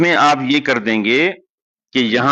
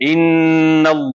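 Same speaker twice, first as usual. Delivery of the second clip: slow recitation; 3 semitones higher, much slower than usual. Shown as a demonstration. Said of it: "تنوین کے بعد".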